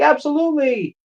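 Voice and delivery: high-pitched, sing-song mock mother; obliging mom. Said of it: "And she's like".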